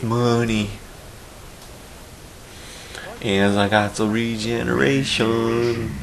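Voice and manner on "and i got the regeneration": slow Western drawl; Western accent. Pretend. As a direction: drawl it like a cowboy. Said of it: "talking in, like, a Western accent".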